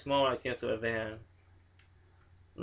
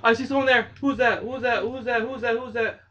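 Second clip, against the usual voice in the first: much higher, louder, repeated nervous question; frantic higher who's that; frightened gasp; 8 semitones higher, 6 dB louder than usual. Real, not acted. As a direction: gasp and keep asking in fear. Spots a figure, panics.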